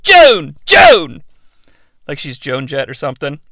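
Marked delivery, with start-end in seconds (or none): 0.0-1.2 mock hidden Swedish accent. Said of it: "it sounds like".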